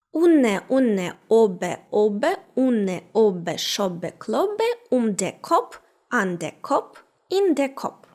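recited toast in Hessian dialect; chant-like word pairs in Hessian dialect. Shown as a demonstration. Teacher recites a well-known Hessian toast, Hessian dialect. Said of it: "познайомитися з відомим гесенським тостом".

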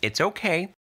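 high-pitched, gentle reassurance; soothing. A narrator's reading. Salas calming her nervous familiar, soothing. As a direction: soothe in a lifted, light voice. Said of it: "said in a soothing voice".

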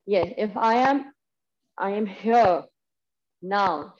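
slow, squeezed voice with the neck craned back; strained while looking up. Shown as a demonstration. Teacher demonstrates a bad neck position, strained. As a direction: show how talking chokes when you look up. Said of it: "I can't even talk when I look up".

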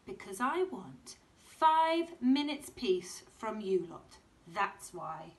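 a touch firmer, slow mum voice; mildly exasperated mum; mum's firm answer. Acted. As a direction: tell the kids off mildly. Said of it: "said Missus Large".

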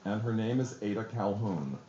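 low, calm retold reassurance. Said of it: "very calmly".

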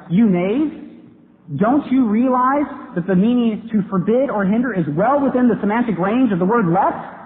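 mock indignation. Acted indignant reply in his story.

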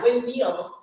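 "Windmill" with an E-like vowel for the I; Minnesotan pronunciation. Retold or imitated. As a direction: imitate a Minnesotan saying "Windmill", vowel shifted towards E. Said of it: "you say it with an E, not an I".

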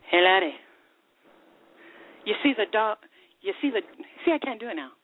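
lilting Scottish brogue as the barman; Scottish pub accent, rolled and proud. Acted. Joke teller voicing a bitter Scottish barman in accent. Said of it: "we definitely applaud you on your accent".

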